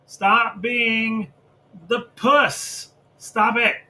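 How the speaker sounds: high, loud scolding; yelling at Frankie. Retold or imitated. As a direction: scold him to stop. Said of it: "I'm like".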